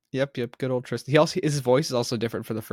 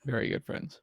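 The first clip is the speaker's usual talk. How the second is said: whispered; 8 dB quieter than usual. Acted. Echoing with a joke.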